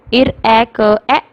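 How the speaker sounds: इर ए क ए slowly, each letter sound apart; sounding out rake. Shown as a demonstration. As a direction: spell out इर ए क ए sound by sound. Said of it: "The beginning sound of rake is". (इर ए क ए को धीरे-धीरे अक्षर-ध्वनि में बोलें)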